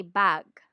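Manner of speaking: "bag" said slowly, Filipino style; Filipino mispronunciation. Shown as a demonstration. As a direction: give "bag" a deliberate Tagalog English vowel. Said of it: "commonly mispronounced words".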